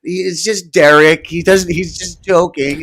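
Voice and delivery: lightly voiced sarcastic apologist brushing it off; a mocking take on a friend defending Derek; Lemmy impression. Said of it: "I've been doing a little Lemmy impression".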